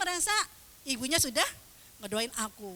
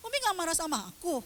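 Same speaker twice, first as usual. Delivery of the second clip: put-on anxious child; 6 semitones higher, 4 dB louder, faster than usual. Child anxiously questions mum, retold.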